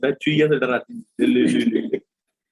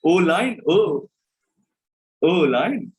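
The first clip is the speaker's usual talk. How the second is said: mock surprised oh; much slower than usual. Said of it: "तुम्हारे मुंह से निकलेगा".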